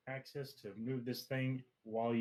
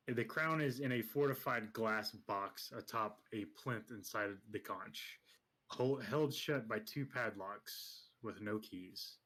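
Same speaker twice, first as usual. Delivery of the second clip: scene setting. Acted. Game master describes scene.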